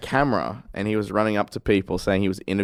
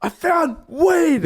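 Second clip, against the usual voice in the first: high, drawn-out victory cry; triumphant yell; 4 dB louder, much slower than usual. Retold or imitated. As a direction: announce it like a huge triumph, stretching each word. Retold triumphant announcement to the group.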